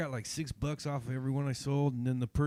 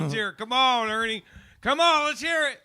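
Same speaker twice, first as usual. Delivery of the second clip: loud, high, eager urging; excited pleading; 11 semitones higher, 12 dB louder than usual. Real, not acted. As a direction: egg him on, shouting. Begging friend to sing.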